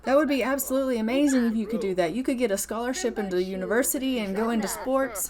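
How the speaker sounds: acting out an excited, encouraging dad; thrilled dad. Dad cheers on son's fitness career, mildly thrilled. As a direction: gush lightly as a proud parent.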